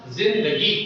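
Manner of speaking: जिंदगी with a clear buzzing z at the start; z, not j, opening जिंदगी; nukta pronunciation. Shown as a demonstration. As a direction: say जिंदगी as Urdu "zindagi". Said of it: "तो मैं इसका उच्चारण क्या करूंगा".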